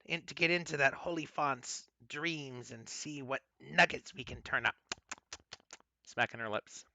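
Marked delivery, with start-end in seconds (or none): 0.1-4.8 greedy hag. Acted. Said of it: "and she says".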